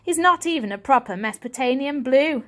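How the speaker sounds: haughty contempt; sneering. Acted. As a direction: look down your nose at him. Julius sneering at Varjak.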